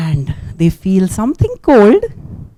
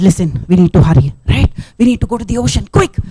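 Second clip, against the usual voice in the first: urgent turtle; 3 semitones lower, faster than usual. Acted. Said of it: "comes out and says".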